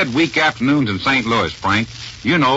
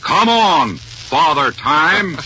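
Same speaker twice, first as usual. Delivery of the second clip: yelling heckler; 3 semitones higher, much slower than usual. Retold or imitated. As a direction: call it out across the ballpark. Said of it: "He yelled out so you could hear him".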